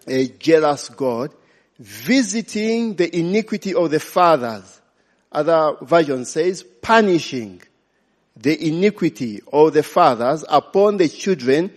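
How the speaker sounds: firm, measured Bible reading; preacher reading scripture aloud. Acted. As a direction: read the verse out to the congregation.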